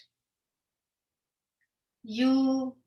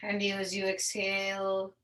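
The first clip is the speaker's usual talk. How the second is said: guided meditation. Acted. Yoga teacher settling students into seated breathing, guided meditation.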